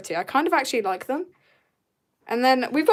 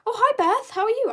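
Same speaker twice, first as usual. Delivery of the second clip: high chirpy hello; high sweet greeting; 11 semitones higher than usual. Acted. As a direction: greet her in a bright high voice. Mock greeting reading a comment.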